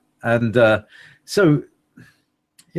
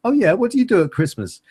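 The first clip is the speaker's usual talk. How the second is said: much higher, silly duck ambassador voice; 9 semitones higher, faster than usual. Pretend. Duck ambassador asks about a Christmas photo in a high silly voice. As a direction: play a curious duck envoy.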